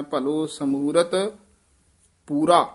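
ਸਮੂਰਤ said soft and light, then a pause before ਪੂਰਾ; teacher shows the student how to read it, soft ਸਮੂਰਤ with a pause. Shown as a demonstration. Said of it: "ਪੋਲਾ ਬੋਲਣਾ ਹੈ".

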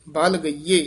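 rest fully on ਗਈਏ before ਦੁਹਚਾਰਨ; full pause after ਗਈਏ. Shown as a demonstration. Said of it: "ਇੱਥੇ ਵਿਸਰਾਮ ਹੈ".

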